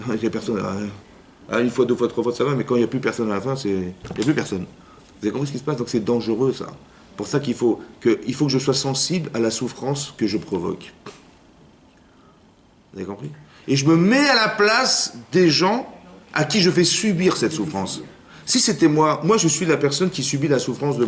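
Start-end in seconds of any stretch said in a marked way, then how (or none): 0.1-0.6 softer, with a real laugh through it. Real, not acted. Rabbi repeating the joke to his congregation, laughing softly. 13.7-18.0 higher and slow, each word weighed; slow emphatic. Acted. Rabbi urging listeners to feel others' pain, slow and emphatic. Key point of the sermon.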